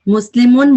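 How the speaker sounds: مسلمون with a long, stressed "oon" ending; Arabic plural ending -un. Shown as a demonstration. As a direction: say مسلمون drawing out the final "mun". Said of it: "یعنی ان".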